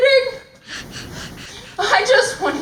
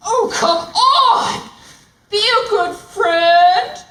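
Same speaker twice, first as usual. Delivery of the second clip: slow, loud exasperated whine; lion fed up with the giraffe's jokes; exasperated plea; 2 semitones higher, 4 dB louder, slower than usual. Acted. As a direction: drag it out in frustration. Frustrated lion pleading.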